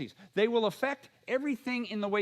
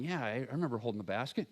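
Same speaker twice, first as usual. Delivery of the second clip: mock clueless disciple; 10 semitones lower, 6 dB quieter, faster than usual. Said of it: "And they're going".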